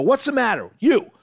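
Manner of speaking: high, drawn-out questioning; single someone out with high, slow exasperation; re-enacted demand to a sullen crowd; exasperated confrontation. Re-enacts confronting silent audience member.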